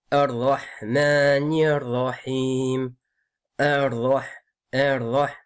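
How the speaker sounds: slow "Ar-Rahman Ar-Rahim", no L, doubled heavy R; careful recitation of "Ar-Rahman Ar-Rahim"; assimilated lam. Shown as a demonstration. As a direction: go straight into the R of "Ar-Rahman", vowels long. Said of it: "c'est pas El-Rahman".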